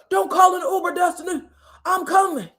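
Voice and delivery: high, hurried-sounding mock protest; acted phone plea. Nell on the phone to waiting Destiny, mock pleading.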